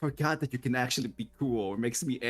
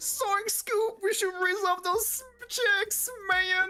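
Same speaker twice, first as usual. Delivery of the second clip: very high, goofy slacker voice. Joking with the others about a game, doing a Shaggy voice. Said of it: "making Shaggy as a character".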